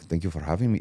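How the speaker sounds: Canadian English with some French thrown on; tentative French-Canadian accent. Retold or imitated. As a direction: try out a slightly wobbly French-Canadian accent. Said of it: "throwing French on it".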